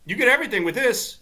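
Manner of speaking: high-pitched put-on voice making an offer; high, friendly mock offer; Gary Player. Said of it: "Gary Player walks up and he".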